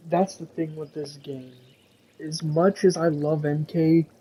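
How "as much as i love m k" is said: talking through a yawn; words stretched out by a yawn. Real, not acted. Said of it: "I'm yawning here".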